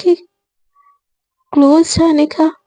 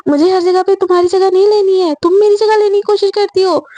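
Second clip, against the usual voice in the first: higher-pitched indignant retort; acted bickering comeback; quarrelling; 5 semitones higher than usual. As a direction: throw the accusation back at a rival. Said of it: "इन लोगों के झगड़े से".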